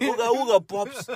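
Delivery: high goofy caveman grunts; mock caveman greeting. Playing cavemen together.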